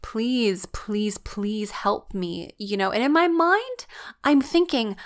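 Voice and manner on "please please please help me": pleading. Retold or imitated. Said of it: "I've been pleading with God".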